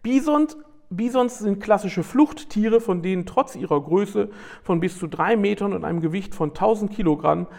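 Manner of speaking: steady read-aloud narration; nature documentary. Acted. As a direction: read it like a wildlife film voiceover. Reads prepared text aloud.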